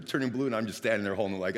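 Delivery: ordinary talk, nothing marked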